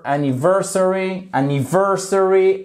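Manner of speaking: "anniversary" with weight on VER; stressed syllable shown. Shown as a demonstration. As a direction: lean on anni-VER-sary, pitched slightly up. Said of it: "on a bien l'accentuation ici". (« anniversary » bien accentué sur VER)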